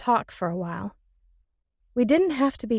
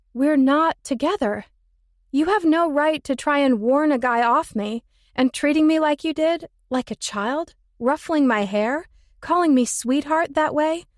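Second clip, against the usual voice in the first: angry; 5 semitones higher, 3 dB louder than usual. Acted. Heroine confronts Ben in anger.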